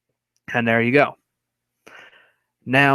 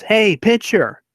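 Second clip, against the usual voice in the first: high, drawn-out heckling chant; taunting; 9 semitones higher, slower than usual. Retold or imitated. Henry taunting the pitcher from first base, taunting singsong. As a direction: needle him with each repeated word. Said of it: "is taunting him and goes".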